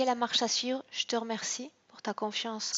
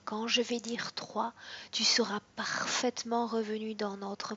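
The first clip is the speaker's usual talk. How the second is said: whispered hypnosis. Acted. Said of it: "counting client out of trance".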